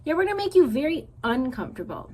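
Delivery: little brother bear eagerly echoing his sister's threat. Acted. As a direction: parrot your sister eagerly.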